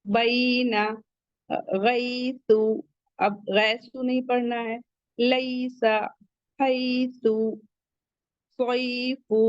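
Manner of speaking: बैना गैसु with drawn out ai glides; slow leen drill. Shown as a demonstration. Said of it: "ऐसे पढ़ना है हमें". (धीरे धीरे लीन)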